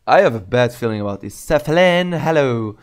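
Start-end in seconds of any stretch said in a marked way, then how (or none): 0.1-1.3 mock dread. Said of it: "voice crack".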